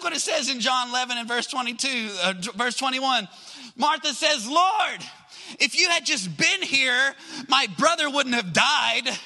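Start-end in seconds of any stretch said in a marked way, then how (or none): 4.5-9.2 acted reproach, high on the opening word; higher-pitched, accusing lament; mad, frustrated. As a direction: reproach him like a frustrated grieving sister. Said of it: "I can imagine her saying it like that".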